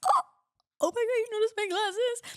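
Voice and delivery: put-on a girlfriend thrilled her new glasses were seen, squealing; delighted girlfriend. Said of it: "she's gonna be like".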